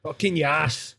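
a lightly put-on echo of his mate; mock echo. Friend echoes the emphatic line back mockingly. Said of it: "echoing the line in mock voice".

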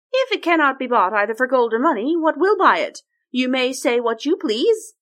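scheming storybook princess; cartoon princess. Princess presses her.

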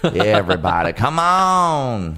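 lightly voiced pop star, words stretched out; put-on celebrity voice. Pop star calling everybody on, put-on voice. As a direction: draw out the last words like a pop singer. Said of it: "read it in that voice".

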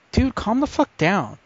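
high, drawn-out "calm down"; exasperated retort. Retold or imitated. Storyteller telling the bus stranger to settle down, exasperated.

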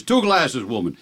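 stage-Irish husband giving orders; horrible Irish accent. Acted. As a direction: demand it in a hammy Irish brogue. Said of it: "your horrible accent that makes the joke".

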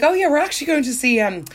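high, quick, eager burst; excited Mick. Retold or imitated. Friend quoting Mick's eager plans, mock excited. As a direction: gush the plan out fast.

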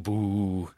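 drawn-out mock booing; mild imitated boo. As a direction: boo like an unimpressed onlooker. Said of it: "at one point he booed us".

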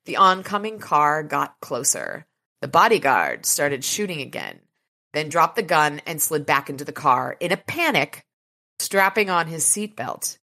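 measured, dramatic audiobook reading; story narration. A narrator's reading. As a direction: read the action scene evenly and deliberately.

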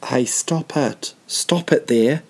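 slow, firm, commanding; bouncer-style command to a rude clubgoer, slow and firm; voice of authority. Shown as a demonstration. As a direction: lay down the law, unhurried. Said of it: "voice of authority".

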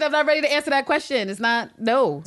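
high, loud, laughing yell; laughing shout. Retold or imitated. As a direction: shriek it out in a flustered panic. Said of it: "She's like".

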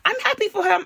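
high, bright American put-on; American accent. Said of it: "let me stop doing American accent".

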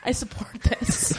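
soft unvoiced whisper. Real, not acted. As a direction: whisper it conspiratorially. Whispered aside.

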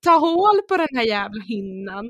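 high, laughing through the words. Real, not acted. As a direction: laugh it out in disbelief. Laughing while retelling. (skrattande, gäll röst)

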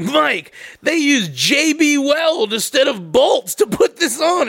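imitating a scandalized mechanic; mock indignant mechanic. Mechanic acted in squabble story.

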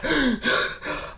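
soft, strained gasp; winded mock gasping; acted breathless gasp. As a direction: imitate puffing under a heavy load. Acting out struggle carrying table backwards.

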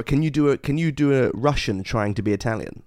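a hint of a hushed aside; nervously asking for an accent under his breath; spy asking for cover help, lightly hushed; whispered aside. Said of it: "trying to cover".

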